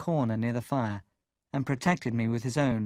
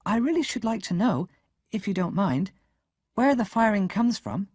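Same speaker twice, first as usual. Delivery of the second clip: put-on higher, careful polite boy; polite request; 8 semitones higher, 3 dB louder than usual. A narrator's reading. Boy politely asking his sister again, careful. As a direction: ask very politely. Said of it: "I said politely".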